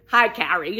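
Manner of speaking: lightly imitated Spanish accent. Friend in the jungle greeting her, light Spanish accent. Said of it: "in her Spanish accent".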